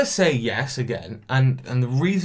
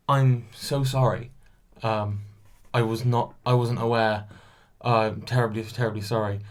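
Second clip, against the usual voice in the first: really polite; 2 semitones lower than usual. Retold or imitated. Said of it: "Really, really polite".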